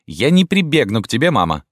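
высокий визгливый выкрик; взвизгни на мать; визгливо. A narrator's reading. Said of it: "визгливо проговорила Рима". (Рима визгливо отвечает матери)

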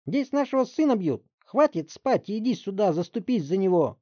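high, loud indignant screech; shrieking mother. Acted. Mother shrieking at the detective. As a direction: shriek at the cop.

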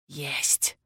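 soft muffled single word; muffled whisper. A narrator's reading. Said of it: "глухо прошептал он". (глухой шёпот, гораздо тише)

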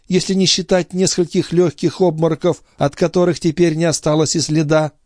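put-on young sister making light of her illness; sister's voice. A narrator's reading. Sister protests she is well.

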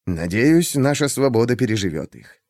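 usual speaking voice

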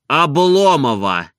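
a touch of stunned surprise, drawn out; astonished. A narrator's reading. Stolz echoes the name, mildly stunned and slow. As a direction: repeat the name slowly in disbelief. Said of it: "повторил он в изумлении".

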